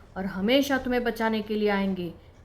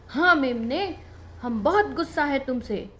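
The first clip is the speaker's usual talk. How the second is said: angry; 2 semitones higher than usual. Acted. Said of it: "आज गुस्से में थे".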